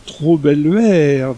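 a hint of a hungry beast eyeing the girl, slow and loud; slow creature question. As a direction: drag each word like a simple-minded creature. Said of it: "demanda-t-il".

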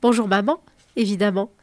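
friendly tone. Acted. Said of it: "Il lui répond d'un ton aimable".

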